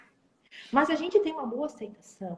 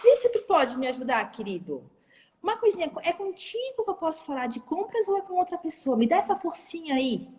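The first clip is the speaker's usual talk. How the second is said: asking for help; 3 semitones higher than usual. Shown as a demonstration. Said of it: "A gente pede muita ajuda".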